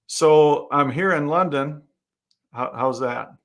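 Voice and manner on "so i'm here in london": put-on slow, louder try at a London English accent; a slow, hammed-up go at sounding like a Londoner. Asked for his best English voice, he puts on an English accent. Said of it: "Give us your best English voice then".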